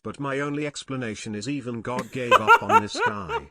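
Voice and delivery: laughing. Real, not acted. Joking God gave up on him.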